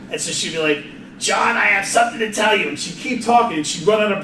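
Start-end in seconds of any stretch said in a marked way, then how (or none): 1.2-2.7 a hint of a grandmother running out of breath; imitating grandmother. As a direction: lightly voice grandma trailing out of air. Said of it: "That's what she sounded like".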